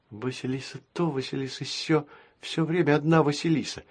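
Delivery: put-on soft, sulky girl's grumble; grumbling girl. A narrator's reading. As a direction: grumble it jealously. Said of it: "проворчала светловолосая дочка президента".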